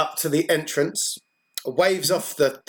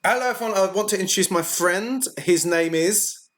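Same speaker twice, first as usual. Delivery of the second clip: in-character introduction; 5 semitones higher than usual. Acted. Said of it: "Sarah says".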